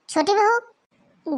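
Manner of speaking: slow, high call of छोटी बहू with a long बहू; drawn-out call. Acted. Mother-in-law calls the sleeping daughter-in-law, slow and drawn out. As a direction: stretch बहू out to wake her.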